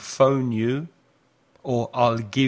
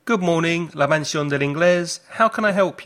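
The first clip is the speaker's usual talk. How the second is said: receptionist voice; 4 semitones higher, 4 dB louder, faster than usual. Pretend. Answering the phone as receptionist.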